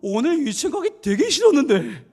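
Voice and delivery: high, loud mock-child wail; whining child. Child leaving for kindergarten against their wishes, whining. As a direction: imitate a reluctant child's loud complaint, half laughing. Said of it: "문을 열고 나가는데 이러더래요".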